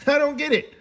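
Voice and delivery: laughing through the repeat; disbelieving laugh on the words. Real, not acted. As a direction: let a laugh break into it. Repeats line, second laughing.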